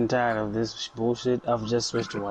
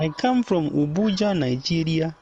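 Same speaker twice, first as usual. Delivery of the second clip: put-on playful high Nigerian accent; 4 semitones higher than usual. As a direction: Nigerian accent, bragging about Abuja. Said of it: "Nigerian accent".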